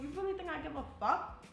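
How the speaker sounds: mock sergeant scorn. Drill sergeant to a bleeding, crying recruit, imitated scorn.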